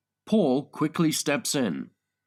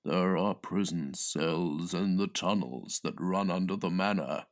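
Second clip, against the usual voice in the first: whispering; 7 semitones lower, 5 dB quieter than usual. Acted. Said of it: "Jones whispering in my ear".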